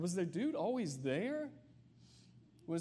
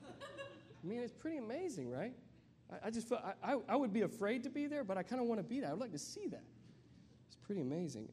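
higher, giddy with wonder; excited awe; 7 semitones higher than usual. Real, not acted. Preacher to congregation, thrilled and amazed by the story.

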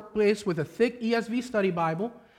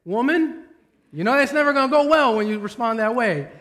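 heated retort; 4 semitones higher, 4 dB louder than usual. Retold or imitated. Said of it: "And then I'll respond like".

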